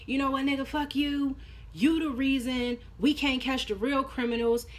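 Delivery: retelling Donovan's outburst with a high, mock-angry voice; pissed off. Donovan on the stand snapping at Proctor, retold in a high mock-angry voice. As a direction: act out a lightly voiced angry witness snapping back, pitched high. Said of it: "Donovan gets pissed off".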